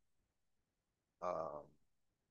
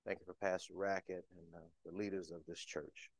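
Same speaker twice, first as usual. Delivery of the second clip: prayer voice. Real, not acted. Speaker opening the sermon in prayer, reverent. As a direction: pray it reverently to the Lord.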